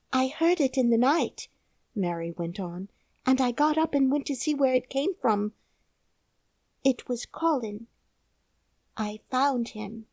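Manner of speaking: put-on solemn little girl; young girl. A narrator's reading. Mary's girl voice.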